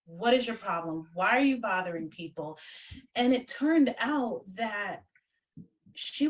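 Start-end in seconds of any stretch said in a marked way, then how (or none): 0.1-2.6 sincere asking. Retold or imitated. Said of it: "I took the time to actually ask".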